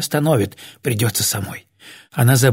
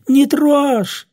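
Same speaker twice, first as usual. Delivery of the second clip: very high, forceful yell; panicked shout; 14 semitones higher, 4 dB louder than usual. A narrator's reading. Old woman orders him off the box, shrieking. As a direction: shriek the warning to stop him. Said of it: "У Глафиры снова прорезался голос".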